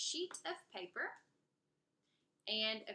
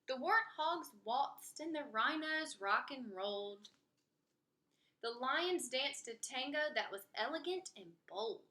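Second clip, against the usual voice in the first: lively picture-book read-aloud with character voices; story narration. Acted. Reading a rhyming story aloud to kids, lively narration. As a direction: read it to children, bouncy and rhymed.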